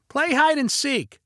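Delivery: put-on high, drawn-out kid's call; child's shout. A narrator's reading. Nephew Leo demanding a game, high childish shout. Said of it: "shouted Leo".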